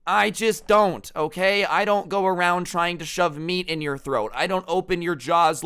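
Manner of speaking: fed-up, high-pitched venting; exasperated rant. Real, not acted. Exasperated rant at pushy vegans.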